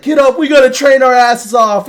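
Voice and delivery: high, shouting loudmouth impression; over-the-top mock bellow; Inosuke. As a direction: holler it as a comic loudmouth. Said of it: "this really loudmouth fucking dude".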